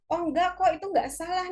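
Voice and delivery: light, high "it's okay" tone; reassuring. Acted. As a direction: reassure a pupil, voice lifted. Teacher voices reassuring a pupil.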